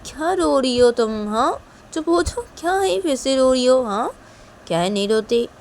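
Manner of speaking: high, loud concerned questions; urgent, insistent hushing; alarmed fussing. Acted. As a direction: fuss over a crying child. Elder reacts to crying child.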